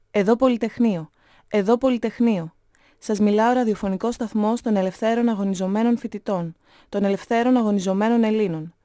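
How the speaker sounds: proclaiming student radio announcer; radio broadcast. A narrator's reading. Student station addressing free Greeks, radio announcer delivery. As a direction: read it as an urgent station call. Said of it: "έλεγε το ράδιο".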